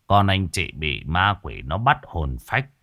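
slow, measured explanation; calm, unhurried. Acted. Exorcist calmly explaining to the parents. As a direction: explain it gently and slowly. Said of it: "ông mới từ tốn".

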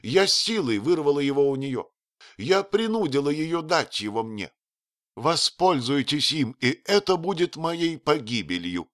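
высокий страстный женский голос; признаться с надрывом; взволнованная графиня. Acted. Rosen voiced by reader. (графиня отдаёт указ принцу)

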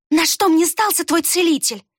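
high, scornful question; contemptuous. A narrator's reading. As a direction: scoff at the idea. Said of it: "Рукс презрительно хмыкнула". (презрительно, высоко)

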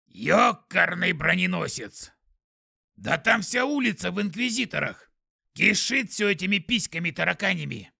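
loud, squeaky skunk shouting. Acted. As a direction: yell like a startled little skunk. Скунс кричит из трубы. (возглас скунса)

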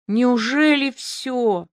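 put-on slow relieved question after the drunk left. A narrator's reading. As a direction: let the danger go out of you. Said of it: "произнесла это с таким облегчением".

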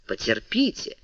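soft, low, with a smile; gently hushed, unhurried request for patience; smiling calm. A narrator's reading. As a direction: say it softly through a smile. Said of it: "сказал Монк с улыбкой".

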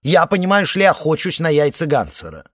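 casual tone of a madman; madly matter-of-fact. Acted. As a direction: say it like an everyday chore, but unhinged. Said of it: "этаким безумно будничным тоном".

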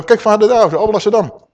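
lightly voiced Gabriel eagerly showing the Father; Gabriel pointing out. Angel Gabriel points Vader to the congregation, eager call. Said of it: "En dan zegt Gabriel".

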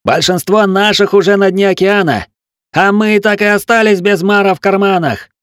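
high, loud furious wail; howling complaint. A narrator's reading. Mutinous gunner yells at the locked captain, furious howl. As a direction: howl the grievance through the door. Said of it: "вопил стрелок".

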